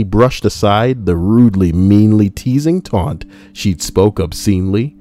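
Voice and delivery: measured, rhythmic poem reading; verse recitation. Acted. Retelling the sister's comeback as verse, poem recitation. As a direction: lean into the metre and rhymes. Reads a rhymed verse aloud.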